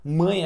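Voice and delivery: MÃE said through the nose; nasal glide at the end of MÃE; nasal sound. Shown as a demonstration. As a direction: let MÃE resonate in the nose. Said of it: "tu usa assim o nariz".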